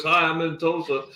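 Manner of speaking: playful Cuban accent impression. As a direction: imitate the Cuban waitress saying hi in a Cuban accent. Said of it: "It's a Cuban accent, right?".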